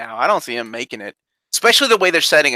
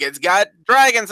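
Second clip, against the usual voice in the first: mock pitch, higher and drawn out; retold sales pitch; 5 semitones higher, slower than usual. Talking friends into a show, enticing retold pitch. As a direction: sell it slowly with a raised voice.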